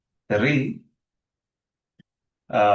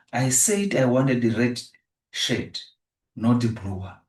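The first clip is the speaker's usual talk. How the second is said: red raised a little for emphasis; stress on red. Shown as a demonstration. Teacher giving the class an example of emphasis, stress on red. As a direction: make red stand out in the sentence. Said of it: "So the word red is emphasized".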